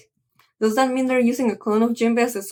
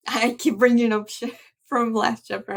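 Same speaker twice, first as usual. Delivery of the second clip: laughing. Real, not acted. Laughs at own slip.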